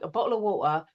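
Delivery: imitating a stock London accent; EastEnders accent. Shown as a demonstration. Mimicking the US idea of Britons, in an EastEnders accent. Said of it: "we only talk like".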